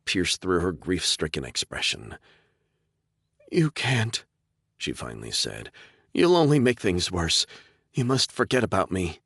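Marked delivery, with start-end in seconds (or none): 3.5-4.2 put-on raised, pleading young woman; lightly voiced young woman; young woman's voice. Sarah pleads, voiced by narrator. 6.1-9.2 put-on raised, pleading young woman; lightly voiced young woman; young woman's voice. Sarah pleads with Chris.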